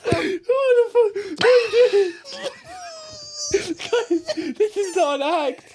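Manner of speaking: laughing. Real, not acted. Partner laughing hard.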